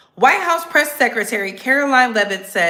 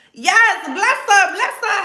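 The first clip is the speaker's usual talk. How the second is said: mock pity; 8 semitones higher, 4 dB louder than usual. Mock sympathy.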